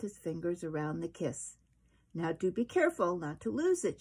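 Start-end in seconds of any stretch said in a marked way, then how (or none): 2.1-4.0 teasing. Acted. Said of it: "she teased him".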